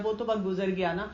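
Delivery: unbothered, easygoing reply; very calm. Shown as a demonstration. Teacher models answering someone who drags up the past, calmly. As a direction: calmly let it go, a touch low. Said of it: "آپ نے بڑے آرام سے ایسے بولنا ہوتا ہے".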